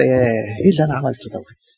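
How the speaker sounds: mock self-praise, half under the breath; proud Nehemiah. Preacher imitating Nehemiah bragging to the people, lightly voiced. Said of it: "كان ما أسهل نحمية يقعد كده".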